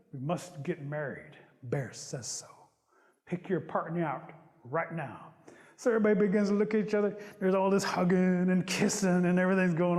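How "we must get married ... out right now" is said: slow, measured announcement with pauses; solemn proclamation. Acted. Rabbit announcing Bear's order to the village, solemn. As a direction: deliver a weighty decree, low and deliberate.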